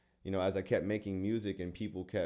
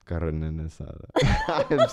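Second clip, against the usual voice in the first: funny ASMR; 2 semitones lower, 11 dB louder, much slower than usual. Pretend. Copies her ASMR demo.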